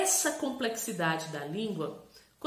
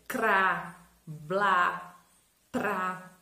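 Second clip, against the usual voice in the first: each syllable said alone and drawn out; CRA, BLÁ, TRÁ as separate, firm syllables; example syllables; 4 semitones lower, 4 dB louder, much slower than usual. Shown as a demonstration. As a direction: demonstrate cra, blá, trá one at a time. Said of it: "Por exemplo".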